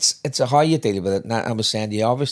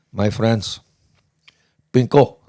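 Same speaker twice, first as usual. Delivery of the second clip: put-on Bulgarian accent; slower than usual. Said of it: "like in a Bulgarian".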